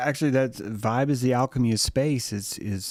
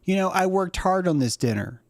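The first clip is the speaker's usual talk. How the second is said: high-pitched chef voice; put-on complaining cook; aggrieved chef; 7 semitones higher than usual. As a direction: protest as an unappreciated chef, pitched up. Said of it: "says the chef".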